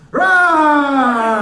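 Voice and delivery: hammed-up lion roar. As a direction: roar like a lion after dinner. Comic playing a roaring lion.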